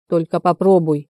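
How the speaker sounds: plain reading voice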